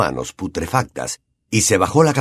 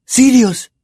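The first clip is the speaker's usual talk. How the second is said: murmured name; 13 semitones higher, 5 dB louder than usual. A narrator's reading. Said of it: "murmuró Harry".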